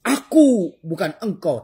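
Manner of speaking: high, loud, slow yellow rice voice; voicing the yellow rice. Preacher voices the yellow rice, high and slow. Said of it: "kata nasi kuning".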